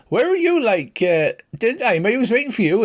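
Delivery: put-on high, put-out country girl voice; a girl scolding her lad for standing her up; scolding sweetheart. Sweetheart scolds her farm lad for missing dinner, high girl's voice.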